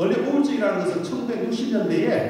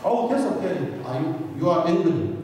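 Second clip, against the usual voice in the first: foreigner asking. Retold or imitated. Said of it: "외국 사람들이".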